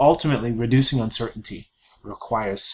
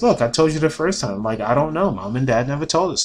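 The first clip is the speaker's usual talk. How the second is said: irritated; 3 semitones higher, 4 dB louder than usual. Acted. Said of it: "he's a little bit irritated".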